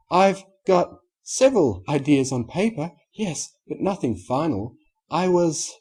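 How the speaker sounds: Rarity voice. Acted.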